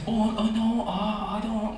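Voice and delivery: high, soft, stammering denial; flustered scammer. Retold or imitated. Scammer confronted about the gold coin, flustered. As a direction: play the caught faker weakly protesting.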